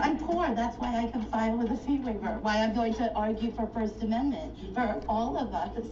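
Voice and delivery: usual speaking voice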